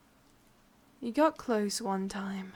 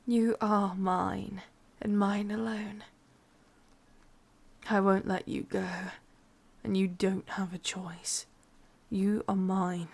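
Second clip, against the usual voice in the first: possessive claim; 4 dB louder than usual. Acted. Witch claiming her captive, possessive and intense. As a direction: lean in hard on each claim.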